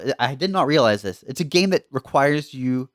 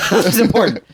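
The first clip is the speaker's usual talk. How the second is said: mock command; 6 semitones higher, 5 dB louder, faster than usual. Demands silence to hear news.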